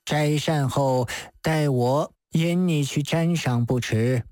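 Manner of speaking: lightly voiced unhurried old priest; venerable Taoist master. Master offering to show the judge a painting, venerable and measured.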